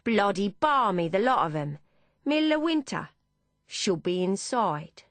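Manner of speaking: lightly voiced Cockney cabbie grumbling; a hint of Cockney, scoffing at the crowd; light Cockney driver muttering about revellers; heavy Cockney accent. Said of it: "in a heavy Cockney accent".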